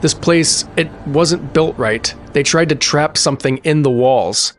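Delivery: fearful. Acted. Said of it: "his voice suddenly fearful".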